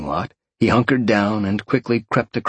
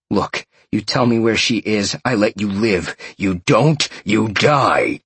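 menacing growl. Acted. Sean threatening the captured mage over his mother, a mild growl. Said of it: "Sean growled".

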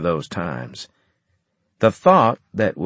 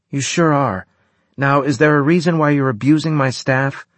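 stern doctor; 6 semitones higher, 4 dB louder than usual. Acted. Anne reprimands.

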